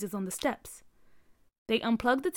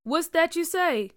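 sharp question; 7 semitones higher, 4 dB louder than usual. A narrator's reading. Dad turning to ask.

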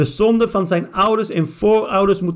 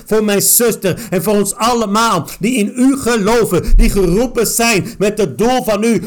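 declaring each line with force; preaching-style prayer with strong stresses; fervent prayer. Real, not acted. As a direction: pray it out, commanding in Jesus' name. Prayer over reading.

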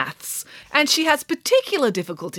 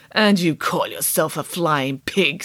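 scoffing armadillo; 4 semitones lower, slower than usual. Acted. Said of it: "scoffed Eduardo".

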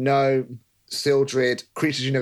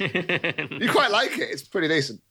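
creature voice; 5 semitones higher than usual. Acted. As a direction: croon it like a pleased monster. Creature voice, laughing.

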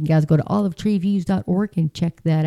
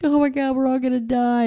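mock panic; 6 semitones higher than usual.

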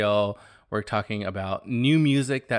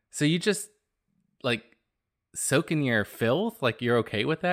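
incredulous mock question; 3 semitones higher than usual. To coworker about soaking in filth, incredulous. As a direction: drag it out in disgusted disbelief. Mocking coworker's bath habit.

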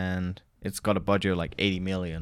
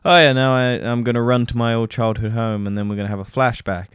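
loud, sarcastic cheerful parody; hammed-up plot-hole enthusiasm; mock eager hero; 3 semitones higher, 6 dB louder than usual. Mocking the hero's silly plan, loud sarcastic parody. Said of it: "And it's just like".

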